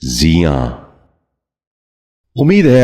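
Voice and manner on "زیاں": زیاں starting with zi, "zi-yaan"; correct زیاں. Shown as a demonstration. Teacher modelling for viewers, زیاں said as "ziyaan". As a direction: put an i before the y in زیاں. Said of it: "آپ بھی غور سے سنیے".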